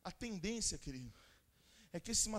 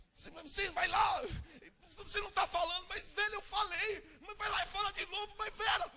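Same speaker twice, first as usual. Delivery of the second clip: retold marital quarrel; 12 semitones higher than usual. Pastor reenacting a fight with his wife, shouting. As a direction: bicker as if arguing with your wife again.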